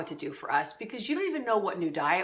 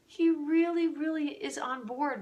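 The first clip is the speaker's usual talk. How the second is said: emphatic aside; 8 semitones higher than usual. Pretend. Mock emphatic aside to moms.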